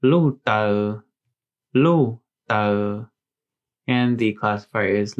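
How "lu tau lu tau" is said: careful White Hmong demo; Hmong word. Shown as a demonstration. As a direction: say "lu tau" clearly, in Hmong tones. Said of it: "that word in White Hmong is".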